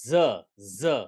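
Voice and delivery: z voiced as an isolated "zhuh", said twice with a gap; ZH sound demo. Shown as a demonstration. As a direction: sound out z as a separate buzzing "zhuh". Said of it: "that is". (z को अलग से "ज़्ह" की ध्वनि में बोलें)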